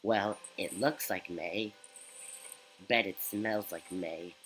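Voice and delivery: put-on slow, low old goat voice. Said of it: "I have to do a goat voice".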